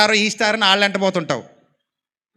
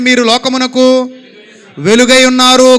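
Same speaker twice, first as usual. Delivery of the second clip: said loudly; 2 semitones higher, 6 dB louder than usual. Shown as a demonstration. Preacher shows the congregation how to shout the verse loudly. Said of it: "గట్టిగా చెప్పండి".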